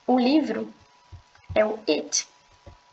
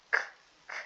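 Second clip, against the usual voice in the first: stopped K demo; 7 dB quieter than usual. Shown as a demonstration. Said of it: "desse jeito".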